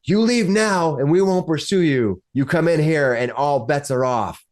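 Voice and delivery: restrained mock shout of an ultimatum; acted shouting. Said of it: "hear him shouting".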